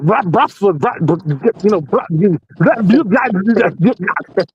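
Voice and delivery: imitating Russian men's chatter in gibberish; mock Russian talk. To his friend, mocking the Russians outside the club, mock Russian babble. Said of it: "talking their Russian talk".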